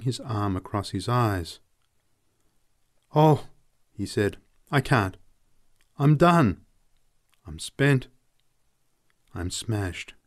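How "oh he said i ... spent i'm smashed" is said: man cracking, high and loud on Oh; a broken man giving up; despairing man. Acted. Man confessing defeat to Elsa, despairing.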